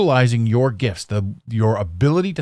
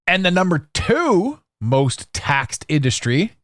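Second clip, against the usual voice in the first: game show build-up; 3 semitones higher than usual. Acted. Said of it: "Drum roll, please".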